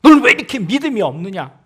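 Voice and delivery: loud, reproachful question; stern rebuke. Acted. Jesus scolding a believer who asks for help, loud rebuke. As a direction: scold them for doubting. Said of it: "호통부터 치시는 겁니다".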